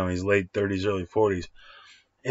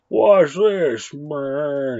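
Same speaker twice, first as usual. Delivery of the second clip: cocky boast; 5 semitones higher, 5 dB louder, much slower than usual. Retold or imitated. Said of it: "and he's like".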